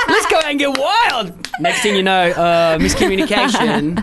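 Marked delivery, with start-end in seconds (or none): 0.1-1.3 higher, slow and laughing; drawn-out excited. Retold or imitated. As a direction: stretch it out, cracking up. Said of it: "I go".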